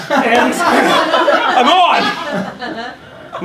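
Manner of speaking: hammed-up stagey actor, slow and loud; rada actor. Shown as a demonstration. Trained English actor announcing he's on, hammed up. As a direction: play the posh trained actor. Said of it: "Now, say action".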